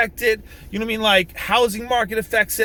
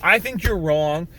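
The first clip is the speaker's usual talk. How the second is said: slightly lowered, measured example of polite firmness; civil disagreement; 3 semitones lower than usual. Shown as a demonstration. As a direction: state your position without being an asshole. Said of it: "just not say it like an asshole".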